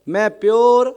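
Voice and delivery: firm call for the congregation to repeat; drawn-out prompting call. Shown as a demonstration. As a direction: lead the crowd to say it up. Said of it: "ਉੱਚੀ ਬੋਲੋ".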